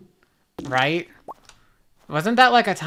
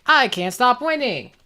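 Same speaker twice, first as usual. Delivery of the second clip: meme catchphrase; 5 semitones higher than usual. Retold or imitated.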